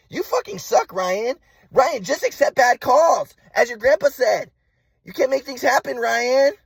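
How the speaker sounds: high-pitched mock scolding, drawing out words; berating mother imitation. Mom berating son to accept bad calls, high mock scolding. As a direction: mimic mom's high, exasperated scolding. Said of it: "And then my mom be like".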